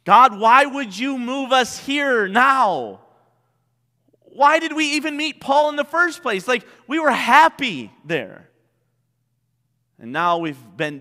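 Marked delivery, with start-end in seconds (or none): 0.0-8.5 voicing a confused prayer to God. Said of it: "this is how I would feel".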